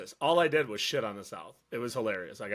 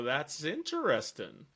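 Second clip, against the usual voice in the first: dry skeptical; 6 dB quieter, slower than usual. Retold or imitated. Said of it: "Did you ever look at them and go".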